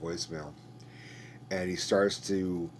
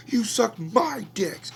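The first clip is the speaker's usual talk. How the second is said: strained whisper; 9 dB louder, slower than usual. Retold or imitated. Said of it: "starts screaming at them".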